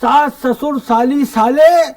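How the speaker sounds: measured, lilting verse delivery; comic poem recitation. Acted. Poet reciting his Holi visit to the in-laws, comic verse recitation. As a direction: declaim the rhymes to a live audience.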